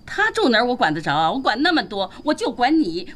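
usual speaking voice

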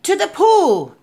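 high, loud excited shout; boy's yell. A narrator's reading. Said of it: "I yelled".

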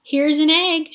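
high, loud happy shout; excited shout. A narrator's reading. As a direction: shout it out proudly. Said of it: "shouted Jack".

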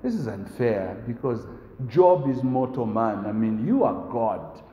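protesting listeners. Retold or imitated. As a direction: plead that it is unfair. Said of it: "all of us obviously are saying".

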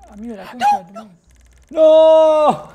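sudden loud shout; angry yell. Real, not acted. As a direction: yell in frustration. Dies in game, yells.

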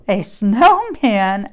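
a slow, lightly confused asking; puzzled question. Acted. Pig hearing Cow call the tree a snowman, puzzled question. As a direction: echo it back unsure. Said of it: "asked Pig".

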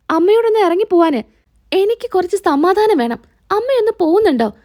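acted annoyance, pitch climbing as you insist; irritated son. Son orders mother out, quarrel.

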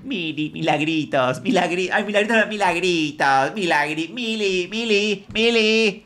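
mock mother calling her girl in a high voice; mom calling out. Streamer mimics a mother calling her daughter, high and fond. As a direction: sing out the name like a fond mom.

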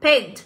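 "Paint" as a short standalone English word; model pronunciation. Shown as a demonstration. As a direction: say "Paint" on its own for learners to copy. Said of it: "chúng ta sẽ được đọc là". (phát âm mẫu từ "Paint")

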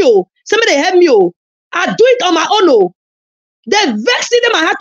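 tearful lament. Real, not acted. To BBTV, wailing about money spent on lawyers. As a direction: cry out your hurt over the case.

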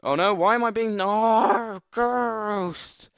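high, loud squeal of disbelief; outraged shout. Real, not acted. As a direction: yelp it out in disbelief. Outraged at Ghost users.

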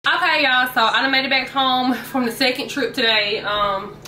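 breathless after carrying bags; out of breath. Real, not acted. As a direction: talk while catching your breath. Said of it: "I'm out of breath".

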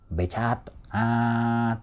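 long "aah" squashed in a small mouth space; narrow, squashed sound. Shown as a demonstration. Coach exaggerates Japanese singers' narrow space, squashed "aah". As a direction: flatten the vowel into a cramped splat. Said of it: "空間が狭いので".

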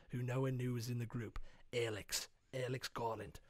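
low, soft, solemn credit narration; mock documentary epilogue. Narrator closing the band's biopic, mock-solemn. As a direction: read it out gravely, softly.

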